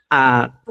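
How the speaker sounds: A begun with a popped q deep in the throat; postvelar explosive q. Shown as a demonstration. Teacher contrasting tongue positions, postvelar popped A. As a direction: pop it at the root of the tongue into A. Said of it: "es muy posvelar".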